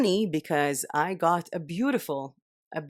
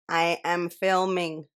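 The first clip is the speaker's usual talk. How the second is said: slow, spaced-out "I am filming"; slow, emphatic; slower than usual. Real, not acted. Vlogger tells someone she can't talk, slowly spelling out "filming". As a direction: separate each word of "I am filming". Repeats slowly to make it clear.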